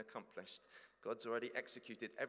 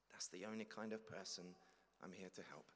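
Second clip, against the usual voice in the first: calm Jesus; 2 semitones lower, 4 dB quieter than usual. Acted. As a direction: answer quietly and kindly. Jesus answers.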